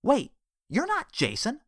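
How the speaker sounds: bewildered. Acted. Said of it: "looked bewildered".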